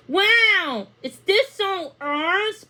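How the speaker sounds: put-on a child thrilled by a holiday home; excited exclaim. A narrator's reading. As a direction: gasp it out at the sight of the cottage. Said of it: "Pippa exclaimed".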